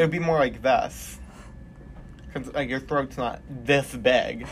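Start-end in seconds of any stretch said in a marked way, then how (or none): 2.3-4.5 laughing. Real, not acted. Laughing through explanation.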